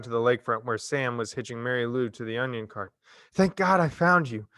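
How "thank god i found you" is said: sighing. A narrator's reading. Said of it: "she sighed".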